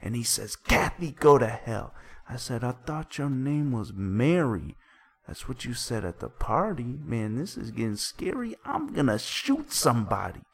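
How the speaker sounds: dramatic recitation. Acted. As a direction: act out each side of the quarrel while narrating.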